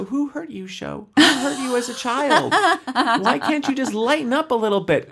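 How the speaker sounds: high, laughing-crying mock plea to the show. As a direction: whine at the show through laughter. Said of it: "I wanna ask the show".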